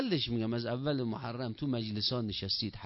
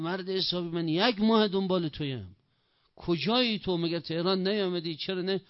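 raised-pitch, mock-exasperated scolding; higher, insistent questioning; exasperated reproach; 4 semitones higher than usual. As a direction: act out fond exasperation at someone long searched for. Acted reproach to long-sought scholar.

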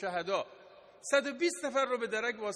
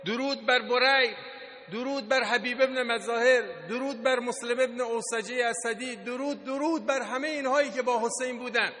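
raised, rallying oratory; crying out salutes; 3 semitones higher, 3 dB louder than usual. Real, not acted. Preacher hails Husayn's fallen companions, crying out salutes. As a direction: proclaim each salute like a chant leader.

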